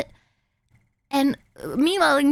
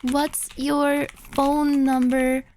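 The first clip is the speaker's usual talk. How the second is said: slow, word-by-word demand; deliberate, halting reading of a pushy text; insistent demand; much slower than usual. Retold or imitated. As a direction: spell it out slowly, pausing between chunks. Reading out driver's pushy texts.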